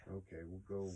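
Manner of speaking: unvoiced whispered go-ahead. Real, not acted. Whispering to her co-host to carry on, whisper. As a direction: drop to a whisper. Whispered aside while recording.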